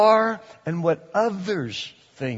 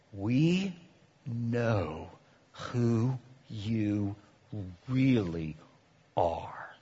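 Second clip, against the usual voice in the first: much softer, slow lower ominous voice; demonic threat; 5 semitones lower, 9 dB quieter, much slower than usual. Retold or imitated. A possessed person menacing you, soft slow ominous. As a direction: drop it low and slow to chill them. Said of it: "they said to you".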